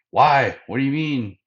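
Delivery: loud, high, baffled objection; indignant protest. Retold or imitated. Gaimon protests Luffy's refusal.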